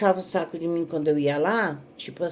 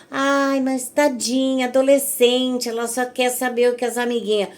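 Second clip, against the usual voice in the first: higher, slowed mock pity; 5 semitones higher than usual. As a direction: simper the excuse on a teen's behalf. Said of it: "algumas pessoas aqui vão dizer". (imitando com pena fingida, voz mais aguda)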